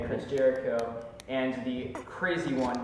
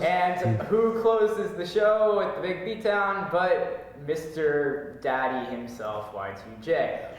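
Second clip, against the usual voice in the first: announcer voice; 4 semitones higher, slower than usual. Pretend. Announcer-style intro of wrestler.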